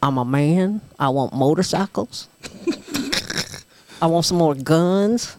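dumb tough guy bragging, low; mocking macho man. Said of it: "This is what it was".

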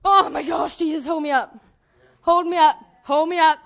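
loud cry for support; acted desperate plea. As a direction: call out urgently for help. Acting a plea to Jesus.

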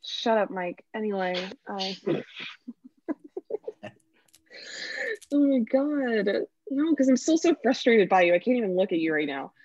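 holding back laughter; fighting off the giggles; trying not to laugh. Real, not acted. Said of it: "you're clearly getting emotional".

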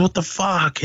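high-pitched imitation of exasperation; mock outrage. Retelling the car owner's reaction, mock outraged.

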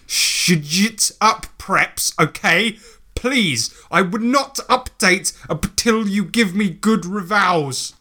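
author's note read out in a lightly put-on teen voice. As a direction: scold the preps like a sulky goth kid. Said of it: "the voice I just put on".

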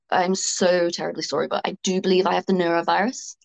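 imitating a posh, overly polite Brit; mock-posh apology, slowing at the end; hammed-up upper-class politeness. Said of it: "said in a really posh voice".

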